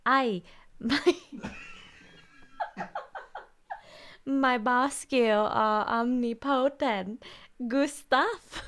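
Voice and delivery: high, loud, hammed-up Vietnamese accent; slow, exaggerated Vietnamese accent parody. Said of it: "I'm preparing myself for the fob voice".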